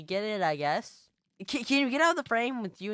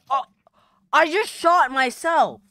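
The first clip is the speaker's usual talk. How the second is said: stunned disbelief; 8 semitones higher, 8 dB louder than usual. Real, not acted. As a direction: spell it out in shock. Shot himself by accident.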